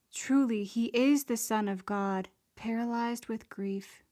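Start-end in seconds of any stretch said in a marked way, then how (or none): 0.1-2.3 loud, stricken cry of belief; awed confession. Acted. Kneeling enemies confess Jesus as God, a loud awed cry. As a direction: proclaim it as if struck by the truth. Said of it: "and confess".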